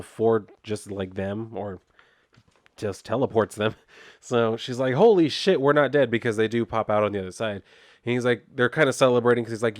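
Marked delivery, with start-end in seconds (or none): 4.9-6.1 high, loud burst of relieved disbelief; excited relief. Retold or imitated. She gasps to him after surviving the teleport, excited. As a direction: blurt it out, thrilled to be alive.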